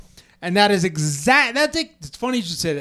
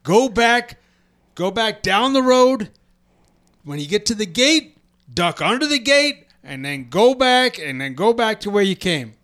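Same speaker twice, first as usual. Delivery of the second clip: measured Southern command, pitched up; put-on Southern accent; 4 semitones higher than usual. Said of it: "He doesn't have a Southern accent".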